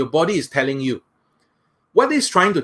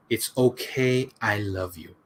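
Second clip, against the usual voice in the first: much softer and slow, fading away; tender and slow, the last repetition; softer slower whisper; 5 semitones lower, 7 dB quieter, slower than usual. Shown as a demonstration. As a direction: let it sink to almost nothing. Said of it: "One more time".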